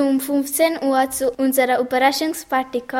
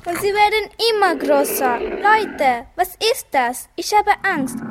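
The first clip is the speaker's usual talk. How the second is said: scared; 5 semitones higher than usual. Acted. Kinder sehen Pflanzen wachsen.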